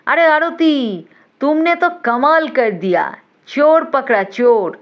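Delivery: thrilled schoolgirl praise, called out; excited congratulation. A narrator's reading. Classmates crowd round, cheering the heroine.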